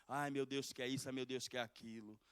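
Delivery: imitating a whiny complainer, ai ai ai; mock the grumbling believer; hammed-up moaning of a complaining Christian; mocking a whiner. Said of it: "Ficar chorando, reclamando".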